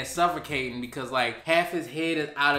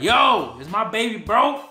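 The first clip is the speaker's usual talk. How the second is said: mock alarm; 5 semitones higher, 6 dB louder than usual. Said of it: "I was like".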